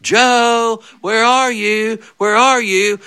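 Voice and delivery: put-on high, sing-out call for missing kids; mock dad calling across the yard; imitated calling out. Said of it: "He was calling".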